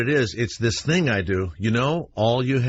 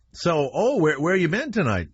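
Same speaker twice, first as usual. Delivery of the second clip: higher-pitched, casually friendly questioning; friendly cop; 4 semitones higher than usual. Retold or imitated. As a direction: act the chummy cop making small talk. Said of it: "they do this friendly thing".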